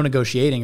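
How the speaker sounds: "negotiating" said as "ne-go-shee-ating". Real, not acted. Explaining a car purchase, "negotiating" with a sh. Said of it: "Why do you say negoti-?".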